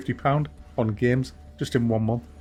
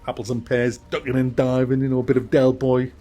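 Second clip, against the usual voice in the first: a mock Cockney accent, louder by the end; bad Cockney accent; 4 dB louder than usual. Bragging to viewers about haggling, in a bad Cockney accent. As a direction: ham up a dodgy Cockney accent like Del Boy. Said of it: "That was a bad Cockney accent".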